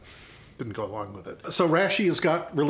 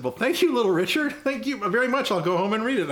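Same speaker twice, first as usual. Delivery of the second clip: starstruck fan; 7 semitones higher than usual. Retold or imitated. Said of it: "And I said".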